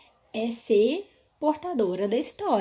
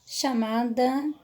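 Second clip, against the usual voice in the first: slow, drawn-out word while searching; lost the thread; 2 semitones higher, 3 dB louder, much slower than usual. Shown as a demonstration. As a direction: stretch it out, losing your place. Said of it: "onde que eu tava?".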